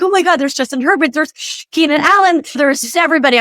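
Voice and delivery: mildly excited imitation of a fan freaking out. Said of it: "I'm, like, freaking out".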